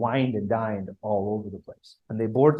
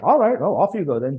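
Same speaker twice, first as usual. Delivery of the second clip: a high, louder start, then settling, a touch of mock indifference; shrugging British reply; 4 semitones higher, 5 dB louder than usual. The British shrugging off the commission's refusal, lightly mocking. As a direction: brush them off lightly, as if you don't mind. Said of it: "the British are like".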